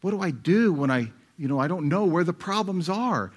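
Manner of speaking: lightly voiced worried congregant; puzzled listener's voice. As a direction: play the confused listener raising his objection. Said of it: "You say".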